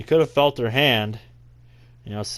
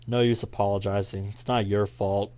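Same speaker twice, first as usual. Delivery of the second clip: cool, unemotional reply; cold. Acted. Ben answering Natsuki's apology, cold. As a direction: say it coldly, giving nothing away. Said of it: "I sound cold as ever".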